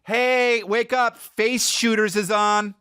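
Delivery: hammed-up high wife voice; mock wife voice. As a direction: chirp it like a cheery wife with a creepy show. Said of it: "it's just like".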